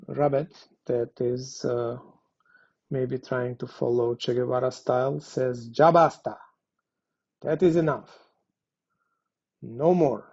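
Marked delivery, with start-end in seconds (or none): 5.8-10.2 louder, firm ya basta; fed-up demand. Shown as a demonstration. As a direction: declare it like a protest slogan. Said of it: "You have to have the particular intonation".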